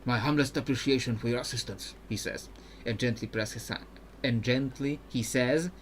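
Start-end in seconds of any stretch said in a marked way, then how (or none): 0.1-1.9 put-on polite, even-toned Ionian accent; Mirim, Ionian accent. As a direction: make a careful request in an Ionian accent. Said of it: "when I'm doing an accent".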